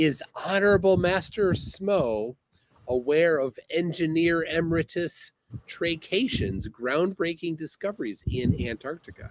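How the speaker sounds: ordinary delivery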